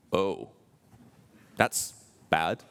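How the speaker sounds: mock pitying reply. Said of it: "You go like".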